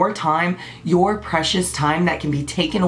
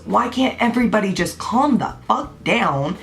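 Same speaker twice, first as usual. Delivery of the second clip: passionate. Real, not acted. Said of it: "got a little passionate there".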